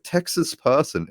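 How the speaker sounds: high, slow command to a phone; retold yelling. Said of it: "I'm, like, yelling at my phone".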